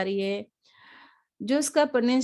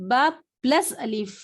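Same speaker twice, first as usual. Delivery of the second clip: slow spelling out. Shown as a demonstration. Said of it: "اسے".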